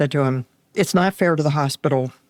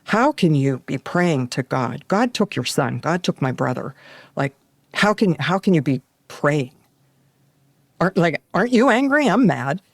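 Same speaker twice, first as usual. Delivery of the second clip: angry outburst; 2 semitones higher than usual. Retold or imitated. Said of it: "And I was so angry at her".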